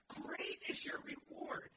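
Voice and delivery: slow, weighty quotation; slow scripture. Shown as a demonstration. Preacher quoting scripture to the congregation, slowly. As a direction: lay each word down slowly. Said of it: "He says".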